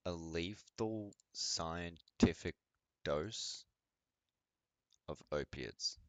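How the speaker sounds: slow, drawn out, pausing between chunks; incredulous echo. Retold or imitated. Listener doubting the opiate story, slow incredulous echo. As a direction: repeat it haltingly, as if it makes no sense.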